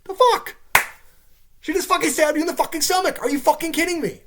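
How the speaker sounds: high, loud disbelieving outrage; outraged yell. Real, not acted. Ranting at the show's heroine, loud outraged yell. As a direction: shout your disbelief at the screen.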